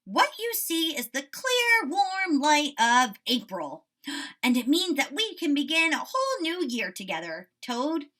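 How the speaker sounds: put-on a teacher reading Frog's delight to children; excited Frog. A narrator's reading. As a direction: marvel at the spring light. Frog excited about spring.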